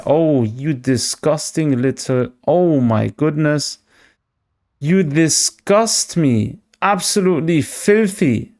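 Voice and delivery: slow, drawn-out playful disgust; venomous. Real, not acted. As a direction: sneer at the opponent's move. Opponent just knocked out his Spidops.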